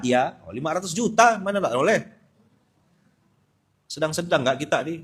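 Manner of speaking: ordinary delivery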